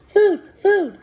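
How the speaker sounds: put-on high, loud baby-bird peep; a hatchling begging for food; peeping gosling. A narrator's reading. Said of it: "That tiny voice".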